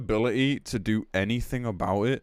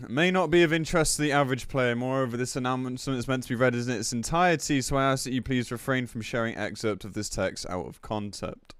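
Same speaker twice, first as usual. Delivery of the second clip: announcement read; 2 semitones higher than usual. Acted. Streamer reads announcement aloud.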